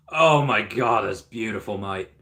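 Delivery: light Australian twang, half-joking; a playful hint of Australian; mock Australian accent. Admiring a donut burger on stream, light mock Australian accent. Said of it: "You made me go Australian".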